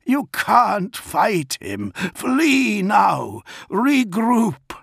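high, urgent yelled warning; strained battlefield yell, pitched high. A narrator's reading. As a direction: yell orders to a comrade in danger. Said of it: "Dantiok yelled from the edge".

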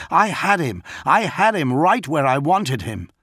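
high, loud frustrated outburst; man furious his plan was ruined; angry yell. A narrator's reading. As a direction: insist angrily he had it handled. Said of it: "John yelled".

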